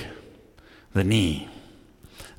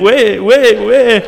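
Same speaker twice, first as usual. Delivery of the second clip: high, loud mock meow of "where"; cat meowing; 10 semitones higher, 11 dB louder, much slower than usual. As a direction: imitate a cat crying "where, where". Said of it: "cat walking outside the building going".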